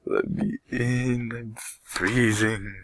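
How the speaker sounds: high, slow, drawn-out wailing yell. Acted. Melody to her mother at the door, wailing yell. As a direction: howl it through the shut door.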